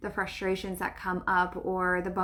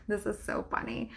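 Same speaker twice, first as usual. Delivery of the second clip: laughing; 7 dB quieter than usual. Real, not acted. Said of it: "That's why I'm laughing".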